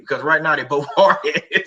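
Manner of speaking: amused, laughter breaking into the speech; real chuckle mid-sentence; laughing while talking. Real, not acted. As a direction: chuckle through the words. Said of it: "I'm laughing now saying that".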